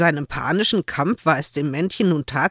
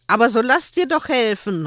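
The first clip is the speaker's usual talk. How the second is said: angry call; 7 semitones higher, 4 dB louder than usual. A narrator's reading. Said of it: "rief Joel erzürnt".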